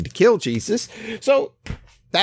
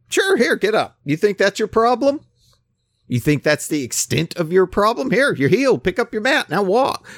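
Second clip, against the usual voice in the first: higher, louder, lively Jesus voice; voicing Jesus, animated; 8 semitones higher, 5 dB louder than usual. Preacher voicing Jesus challenging the healed man, higher and louder.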